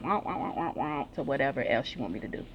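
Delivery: mock whining wah. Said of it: "all I do is hear her saying".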